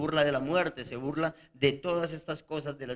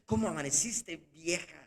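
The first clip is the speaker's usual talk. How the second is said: same words with a cold reproachful edge, fading quieter; reproachful greeting; 5 dB quieter than usual. Shown as a demonstration. Husband years later greeting his wife with mild reproach. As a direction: let years of reproach leak in. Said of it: "ya hay allí como un reproche".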